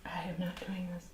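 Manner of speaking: hushed whisper of refusal. Real, not acted. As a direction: whisper it, reluctant.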